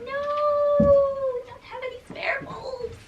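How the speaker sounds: breathy whisper, barely audible; slow whispered aside. Real, not acted. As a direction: hush it right down, almost to yourself. Quiet reply while searching for bulbs.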